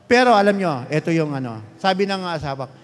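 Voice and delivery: normal talking voice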